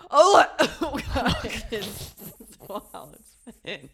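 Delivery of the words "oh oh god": slow groan, laughing through it. Retold or imitated. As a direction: laugh it out, exasperated. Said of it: "finally I was like".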